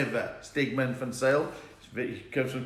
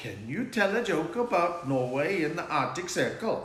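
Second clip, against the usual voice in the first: put-on Norwegian-accented voice; 3 semitones higher than usual. Quoting a Norwegian man asking them for a joke, imitating a Norwegian accent. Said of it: "That's how they talk".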